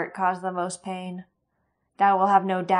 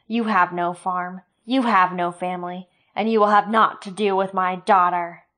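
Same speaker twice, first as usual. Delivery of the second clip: loud, scornful rage; contemptuous fury; 8 dB louder than usual. Acted. Sloane refusing his blessing, loud and scornful. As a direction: spit the insult at him.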